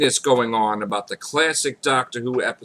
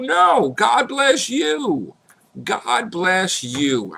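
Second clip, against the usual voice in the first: high blessing; 10 semitones higher, much slower than usual. Real, not acted. Answering haters warmly.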